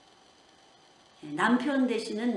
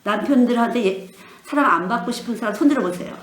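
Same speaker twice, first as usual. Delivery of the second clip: much louder, calling to the room; rally the whole congregation; 9 dB louder than usual. Real, not acted. Preacher calls out to the congregation for raised hands, loudly.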